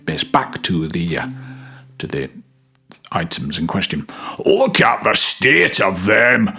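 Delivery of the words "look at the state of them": put-on judgmental Scottish gangster accent, hushed and sneering; Scottish gangland boss. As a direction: sneer it like a Glasgow hard man in Scottish. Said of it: "the judgmental voice in my Scottish gangland boss audition voice".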